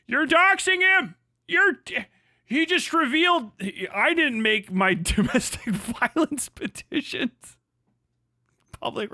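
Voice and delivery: high, slow, prissy mocking voice; mock whiny critic. Streamer mocking a critic who claims doxing, high whine. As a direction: pitch way up and whine like the offended critic.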